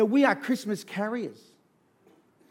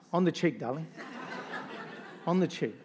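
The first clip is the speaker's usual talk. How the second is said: laughing; 3 dB quieter than usual. Real, not acted.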